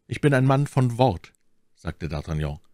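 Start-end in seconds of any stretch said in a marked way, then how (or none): 0.1-1.3 put-on higher, resolute young man. A narrator's reading. D'Artagnan resolves to finish the matter, resolute. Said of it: "fest entschlossen".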